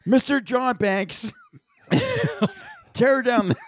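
lightly voiced old man, slow and shaky; a hint of a creaky old man. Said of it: "Greg does a really good old man voice".

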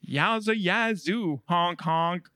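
slow, loud, hammy yowza; zany DJ catchphrase. Pretend. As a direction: ham up the radio shtick.

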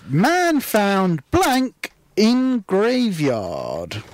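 slow, deliberate reading; each word drawn out; slow headline read. Shown as a demonstration.

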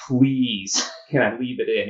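mock begging, half laughing; laughing plea to the surgeon; pleading with a laugh. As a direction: plead with him to keep the rod in, laughing. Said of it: "I just look at him and say".

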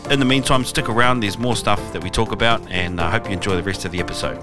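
upbeat podcast promo read; announcer voice. Acted. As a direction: read it like a radio host plugging the show. Host reads podcast promo announcement.

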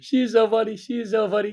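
high mocking "so funny"; sarcastic. Real, not acted. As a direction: say it with teasing sarcasm.

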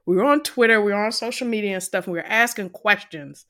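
thumping on the microphone while talking; tapping the mic. Real, not acted. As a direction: knock the mic as you speak. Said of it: "stop hitting your microphone".

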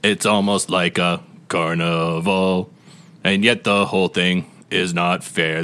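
slow, theatrical poem reading; slow rhyming recital. Acted. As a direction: recite it like a carnival barker. Reads rhyming game intro.

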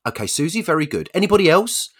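high, loud question to the room; teacher to class. Acted. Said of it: "So she goes".

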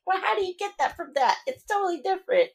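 high-pitched, incredulous protest; baffled retort. Retold or imitated. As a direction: question it in mock bewilderment, way up high. Baffled retort to confusing spellings.

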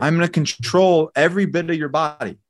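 high-pitched, emphatic show of dominance; cocky threat. Acted. Trained fighter to an untrained attacker, cocky threat. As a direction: warn an imagined opponent with total confidence.

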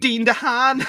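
high, loud shouted name; shouted joke. Pretend.

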